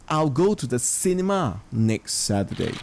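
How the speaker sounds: "cinema" lifted and prominent; stress on cinema. Shown as a demonstration. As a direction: lean hard on "cinema". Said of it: "we're going to the cinema".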